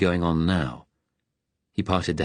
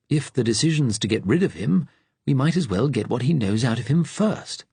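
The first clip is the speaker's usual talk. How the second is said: retort; 6 semitones higher than usual. A narrator's reading. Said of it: "Brendan retorted".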